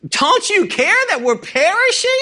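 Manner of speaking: high pleading question; desperate plea. Acted. Frightened disciples pleading with Jesus, high desperate voice. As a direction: beg him, afraid of drowning.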